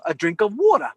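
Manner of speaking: put-on "water" with a light Brooklyn accent; wife's Brooklyn accent. Quoting how his wife asked for water, Brooklyn accent. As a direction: say "water" Brooklyn-style with the R dropped. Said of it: "when she said water".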